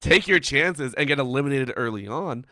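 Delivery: mock urging. Caster acting out telling teams to drop in, loud mock urging. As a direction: push it like a forceful piece of advice. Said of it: "You can't be like".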